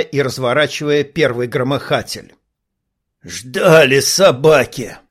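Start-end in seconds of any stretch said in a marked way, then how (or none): 3.2-5.0 slow, rasping, pushed out; hoarse rasp. Acted. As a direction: wheeze it through the throat. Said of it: "прохрипел Мосс". (хриплый голос)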